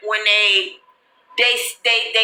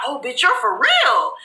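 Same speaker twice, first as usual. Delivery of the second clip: higher, laughing shout of disbelief; laughing surprise; 7 semitones higher than usual. Retold or imitated. Friends seeing the camera footage, laughing surprise. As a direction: burst out laughing in shock. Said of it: "They was like".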